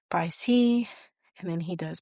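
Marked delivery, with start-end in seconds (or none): 0.1-0.9 breathy whispered goodbye. Retold or imitated. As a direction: whisper the farewell as if barely holding on. Tearful farewell in retold film.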